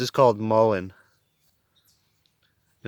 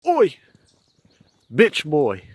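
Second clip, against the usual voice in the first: high, loud call; 6 semitones higher, 5 dB louder, slower than usual. Real, not acted. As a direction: holler it up high to get his attention. Calling out to animal companion.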